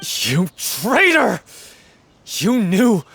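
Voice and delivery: furious accusation. Acted. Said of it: "You've screamed and shouted at each other".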